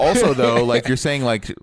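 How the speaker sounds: talking with the hiccups; hiccuping between words. Real, not acted. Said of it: "I got the hiccups now".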